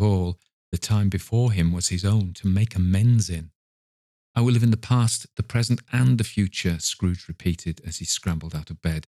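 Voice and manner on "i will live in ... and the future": eager vow. Acted. Scrooge repeats his vow joyfully.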